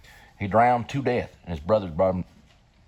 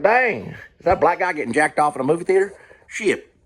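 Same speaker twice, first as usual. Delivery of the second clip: retold shocked reaction; 9 semitones higher, 3 dB louder than usual. Retells his reaction watching film.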